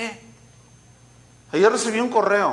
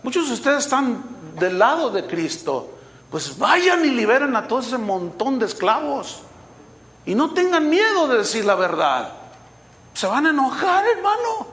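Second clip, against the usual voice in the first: raised, higher-pitched exhortation; forceful preaching; 6 semitones higher than usual. Real, not acted. Preacher exhorting his congregation to free the slaves, forceful.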